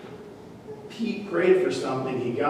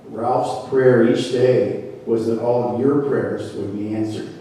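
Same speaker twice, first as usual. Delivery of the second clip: God voice; 4 semitones lower than usual. Acted. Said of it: "this is my God voice".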